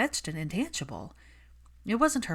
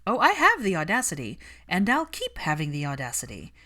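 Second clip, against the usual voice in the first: unapologetic; 4 dB louder than usual. Acted. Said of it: "her friend was completely unapologetic".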